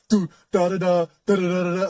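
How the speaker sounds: rapid sung-out beat syllables; mock music noise; imitated loud music. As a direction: mimic a blaring car stereo with nonsense syllables. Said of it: "like, loud music".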